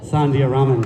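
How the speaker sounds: name called out loud to the crowd; host calling the next speaker onto the stage, loud; announcer call-out. Real, not acted. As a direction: call her name out to bring her on.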